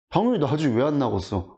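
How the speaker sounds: ordinary delivery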